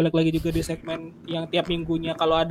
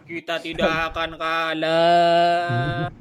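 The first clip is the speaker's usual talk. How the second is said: slow, drawn-out dramatic anime line; anime voice actor; much slower than usual. Shown as a demonstration. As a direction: declaim it like an anime hero. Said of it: "Kayak pengisi suara anime lu".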